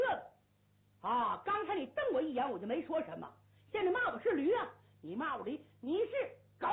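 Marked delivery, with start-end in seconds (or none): 3.7-6.7 higher, louder indignant retort; angry comeback. Acted. Hu Dahai firing the insult back at the red-faced player, indignant. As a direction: throw the insult straight back.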